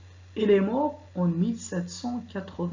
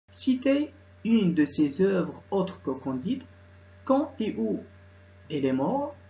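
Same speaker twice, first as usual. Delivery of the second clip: slow, deliberate reading of exam questions; slow exam dictation; much slower than usual. Shown as a demonstration. Teacher reading the French exam to students, slow and deliberate. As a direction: read each question slowly for the students.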